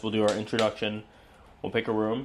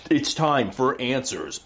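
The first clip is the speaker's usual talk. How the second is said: dramatic; slower than usual. Acted. Dramatic ghost hunt line.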